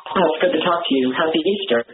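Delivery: speakerphone echo; talking through a tin can on speakerphone; tin can phone. Real, not acted. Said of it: "it sounds kinda like you're talking through a tin can".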